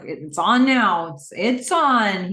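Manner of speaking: loud, drawn-out challenge; heckling. Acted. The speaker heckling the screen as he takes over, taunting. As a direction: taunt it slowly and loudly. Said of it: "He's heckling the screen".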